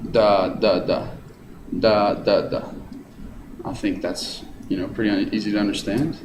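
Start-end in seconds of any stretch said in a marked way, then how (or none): 0.1-2.7 DUM-da-da, strong start; dactylic beat. Shown as a demonstration. Teacher demonstrates dactylic rhythm, strong first beat. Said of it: "with a high syllable and goes too low".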